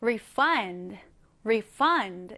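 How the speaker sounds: "refund" as a verb, re-FUND; slow "refund" with the weight on the last syllable; stress on second syllable. Shown as a demonstration. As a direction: lean on FUND in "refund", RE kept light. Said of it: "강세가 뒤에 들어갑니다".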